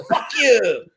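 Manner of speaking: mock Spanish accent, a bit loud and high; Carlos. Storyteller imitating Carlos cursing him, mock Spanish accent. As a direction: fire it back in a put-on Spanish accent. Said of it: "he pronounced things".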